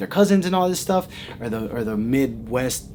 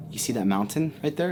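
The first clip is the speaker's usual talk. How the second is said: ominous warning; 2 semitones lower, 7 dB quieter than usual. Retold or imitated. Local lady warns her guest about the mountain, hushed and ominous. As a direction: softly point out something eerie. Lady's eerie warning in story.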